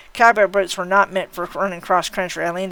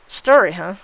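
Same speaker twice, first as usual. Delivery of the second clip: sudden interest; 5 dB louder, slower than usual. Acted. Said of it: "sudden twinge of interest in her voice".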